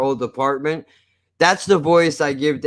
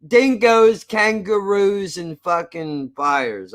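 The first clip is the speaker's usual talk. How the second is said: higher, slow, badly faked Australian accent; mock Australian accent; 5 semitones higher, slower than usual. Streamer tries an Australian accent for chat, badly faked. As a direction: list Aussie clichés in a fake accent. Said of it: "That's not Australian at all".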